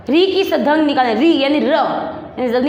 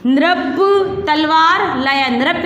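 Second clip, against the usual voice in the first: slow read-along; much slower than usual. Shown as a demonstration. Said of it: "अब क्या पढ़ेंगे इसको".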